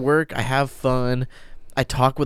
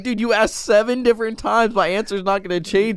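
fed-up; 8 semitones higher than usual. Retold or imitated. Acted fed-up reply to kid.

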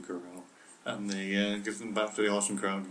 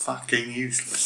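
American accent; 3 semitones higher than usual. Shown as a demonstration. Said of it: "this is the American".

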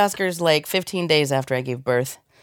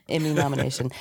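announcer whisper; 6 dB quieter, faster than usual. Shown as a demonstration. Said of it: "winner walk-ups".

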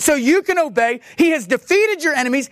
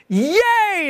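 higher, drawn-out little cheer; mock celebration; 6 semitones higher than usual. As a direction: let out a playful yay. Rejoicing cheer after being sad.

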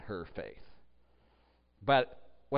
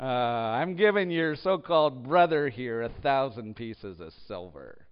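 sarcastic. Shown as a demonstration. Preacher voicing the king teasing Abraham, mildly sarcastic. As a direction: lean on "so-called", a knowing sarcastic jab. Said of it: "I would like to hear how he said it".

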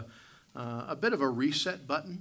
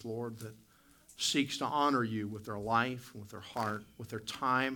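prayer voice. Acted. Leads the congregation in prayer.

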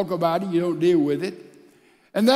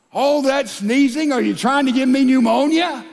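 louder, higher, resentful snap at the sick wife; annoyed accusation; 5 semitones higher, 4 dB louder than usual. Retold or imitated. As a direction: blame her for getting sick. Husband, seventh year, resentful.

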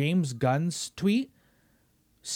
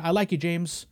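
calm mock boss. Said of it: "Imagine I'm David Zaslav".

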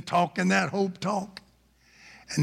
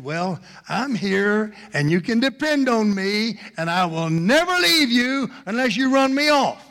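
steady start swelling to a forceful declaration; emphatic pledge; 5 semitones higher, 4 dB louder than usual. Acted. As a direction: build to a raised, loud promise. Hope pledges never to leave.

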